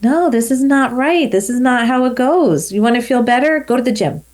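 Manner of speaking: mildly stern pep talk; firm self-talk. Retold or imitated. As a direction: tell yourself off firmly.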